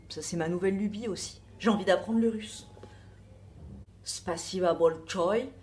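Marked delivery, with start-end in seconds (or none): 4.0-5.5 slow, put-on Russian accent. Showing off her new Russian craze in a Russian accent. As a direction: savour the Russian accent like a fan. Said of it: "J'adore cet accent".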